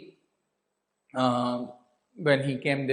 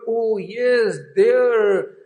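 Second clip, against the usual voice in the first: rising, louder eureka; dawning realization; 7 semitones higher, 6 dB louder, much slower than usual. Retold or imitated. Governor suddenly grasping the clue, excited rising realization. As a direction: let the realization burst out.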